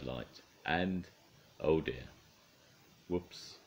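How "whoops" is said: softly breathed whoops; quiet whoops. Acted. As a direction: hush it, light going out. Bedtime story closing.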